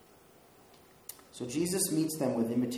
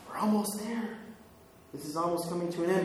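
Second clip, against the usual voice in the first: reluctant disciples; 4 semitones higher, faster than usual. Retold or imitated. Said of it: "they're like".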